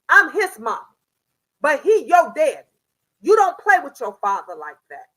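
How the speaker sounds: loud, firm warning; firm scolding. Retold or imitated. Grandmother correcting granddaughter for rudeness. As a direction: lay down the law. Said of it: "I had to let her know".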